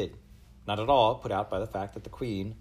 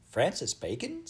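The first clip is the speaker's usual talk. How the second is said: high-pitched, thrilled question; excited girl; 12 semitones higher, slower than usual. A narrator's reading. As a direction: squeal the name as an eager question. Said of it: "jiggling up and down excitedly".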